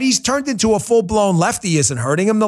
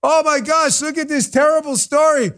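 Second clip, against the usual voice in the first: higher, hammed-up gasp of fake outrage; mock alarm; 6 semitones higher than usual. Host mocking conservatives who fell for the story, in hammed-up alarm. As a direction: play the gullible pundit clutching pearls. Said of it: "jumped on this like".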